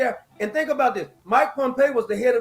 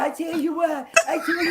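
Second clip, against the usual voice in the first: mock high voice; 4 semitones higher than usual. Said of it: "it sounded like Michael Jackson".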